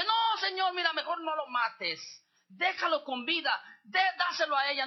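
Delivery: a mother crying out to spare her son; pleading shout. Retold or imitated. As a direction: beg the king to spare him. True mother begs king.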